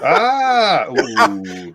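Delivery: surprised gasp. Real, not acted. Reacting to a teasing remark.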